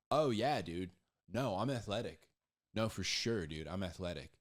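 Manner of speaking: a hint of an easygoing bro insisting he's fit; breezy, overconfident dude; mock boastful bro. Preacher playing a lazy guy who claims he's athletic, breezy bro.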